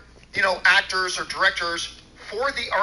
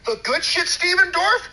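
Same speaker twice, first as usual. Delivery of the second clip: incredulous; 8 semitones higher than usual. Real, not acted. Incredulous rant at Dorff.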